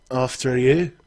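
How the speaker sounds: lightly put-on Cockney; a short Cockney invitation; Cockney accent. No-Nose sending the player down the ladder first, Cockney accent. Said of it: "He has a Cockney accent".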